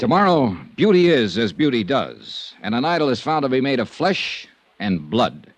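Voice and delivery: slow, dramatic teaser read; episode teaser. Acted. Star teasing listeners about tomorrow's episode, dramatic slow read.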